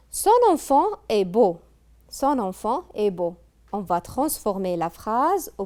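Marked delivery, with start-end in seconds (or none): 0.1-1.6 raised, louder reading of the example sentence; announcing the example. Shown as a demonstration. Teacher announcing exercise sentence to pupils, raised and louder. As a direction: call the sentence out clearly to the class.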